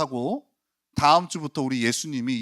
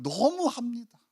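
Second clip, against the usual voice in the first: higher 너무합니다 with sharp indignation; indignant reproach; 8 semitones higher, 4 dB quieter, slower than usual. Shown as a demonstration. Pastor showing the title's nuance, higher indignant reproach. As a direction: fling 너무합니다 back as an accusation. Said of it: "뉘앙스가 이거예요".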